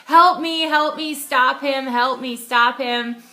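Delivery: retold scream. Mugging victim chasing the thief calls for help, mock screaming. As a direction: imitate screaming for help without full force. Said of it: "screaming at the top of my lungs".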